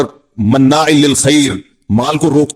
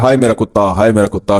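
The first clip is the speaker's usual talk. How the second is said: hammed-up lament, pitched much lower; mock wailing; 7 semitones lower than usual. Man wailing over his starving dog, mock lament. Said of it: "ये रो रहा है, रो रहा है".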